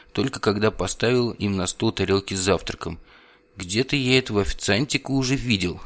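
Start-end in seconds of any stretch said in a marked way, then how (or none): 3.6-5.8 gloating. Acted. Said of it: "злорадно произнёс".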